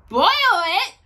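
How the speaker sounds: gasped disbelief, rising sharply; appalled question; shocked gasp. A narrator's reading. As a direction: gasp it in horror. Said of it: "gasped Horton".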